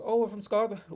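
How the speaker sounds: very high, loud mock Scottish accent; shitty Scottish accent. Scotsman answering where he's from, mock Scottish accent. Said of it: "my shitty Scottish accent".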